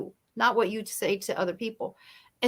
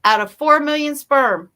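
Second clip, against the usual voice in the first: N=Les Brown/public; quoting Les Brown, louder; 7 dB louder than usual. Retold or imitated. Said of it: "Les Brown says it best".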